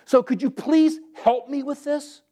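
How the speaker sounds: honest plain prayer. Retold or imitated. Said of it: "If there's something you don't understand".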